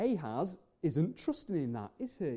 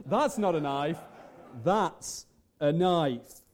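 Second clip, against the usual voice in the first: confident swagger, slow and drawn out on the payoff; Mick Dundee; 4 semitones lower, slower than usual. Retold or imitated. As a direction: retell it with cool swagger, stretching the final reveal. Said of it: "there's a confidence. There's a swagger".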